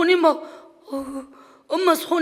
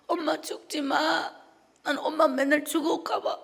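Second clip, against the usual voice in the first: put-on child pleading; 4 semitones higher than usual. Child begging mother not to die.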